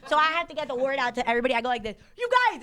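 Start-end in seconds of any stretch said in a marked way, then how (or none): 2.2-2.6 high, loud arena comic call; dream stage voice. Pretend. Comic imagining her arena show, high loud call. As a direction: shout it to the back row. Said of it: "this is how I talk in my dream".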